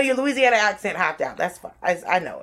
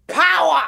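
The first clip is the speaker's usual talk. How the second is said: power punched higher and louder; stress on power; 8 semitones higher, 6 dB louder than usual. Acted. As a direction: hit the word power hard. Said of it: "it's got the word".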